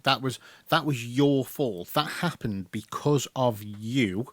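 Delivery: slow, deliberate mock telling-off; measured, accusing delivery with heavy pauses; retold reproach. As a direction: spell out the blame word by word. Acted blaming of others, spelled out.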